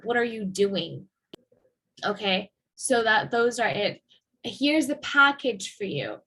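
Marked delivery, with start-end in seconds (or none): 0.0-1.1 doing stressed at the end. Shown as a demonstration. Teacher repeating the focus on doing. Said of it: "Doing, again, is the verb". 4.4-6.2 package stressed as the focus word. Shown as a demonstration. Teacher modelling focus on package. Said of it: "package is the last".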